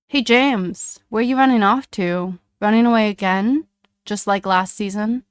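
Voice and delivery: loud, jeering shouts; yelling taunts. Acted. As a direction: yell it to mock him. Bullies yelling at James.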